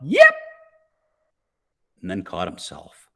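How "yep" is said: sudden, high, loud yelp. A narrator's reading. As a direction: let it burst out high. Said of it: "someone who yelped".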